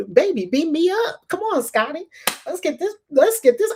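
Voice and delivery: high, lightly hammed sci-fi hail; mock Star Trek captain. Dreaming of space travel, a light Star Trek voice. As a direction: play at being beamed up, lightly. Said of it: "it's gonna be like Star Trek".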